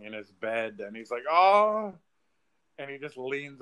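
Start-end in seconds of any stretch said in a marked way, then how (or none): 1.3-1.9 retold distress. Man retold finding dying girl.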